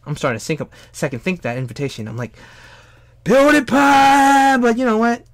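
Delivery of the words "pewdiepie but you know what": high-pitched whiny. Retold or imitated. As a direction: voice breaking very high and slow. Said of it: "broke his voice in such a high-pitched, whiny manner".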